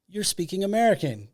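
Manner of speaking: high, loud startled outburst; surprised exclaim. Retold or imitated. Lady bursting into the hallway, exclaiming in surprise. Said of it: "and she goes".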